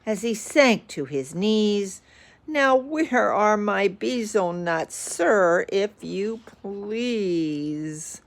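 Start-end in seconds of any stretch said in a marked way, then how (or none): 2.4-8.2 gasping. Acted. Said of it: "he gasped to the bug".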